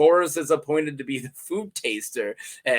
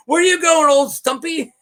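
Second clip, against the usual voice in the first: higher, louder sneering guard voice; cocky jeer, pitched way up; mocking guard; 14 semitones higher, 7 dB louder than usual. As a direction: taunt the ragged stranger from on high. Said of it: "He's like".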